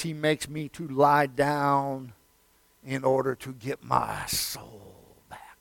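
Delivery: hushed intimate aside; whisper. Acted. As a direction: draw them in with a whisper. Whispered line before shouted repeat.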